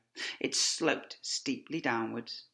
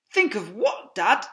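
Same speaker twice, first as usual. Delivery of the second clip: higher, louder puzzled cub; curious cub; 9 semitones higher, 10 dB louder than usual. Acted. Cub asking his father, puzzled. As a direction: ask it wide-eyed. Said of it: "cub asking".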